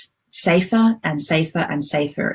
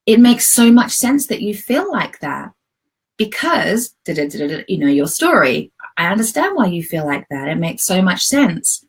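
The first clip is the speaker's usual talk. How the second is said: reassuring adult self. Shown as a demonstration. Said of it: "adult you says".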